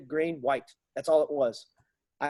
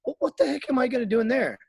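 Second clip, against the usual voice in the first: louder, faster, climbing higher at the end; indignant complaint; 4 semitones higher, 4 dB louder than usual. Retold or imitated. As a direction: argue you're too smart for this. Retold complaint to recruiters.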